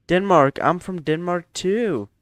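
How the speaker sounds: bright, high and loud, delighted to find a fellow Dane; a sudden burst of joy at the news; excited. Real, not acted. Viewer turns out to be Danish.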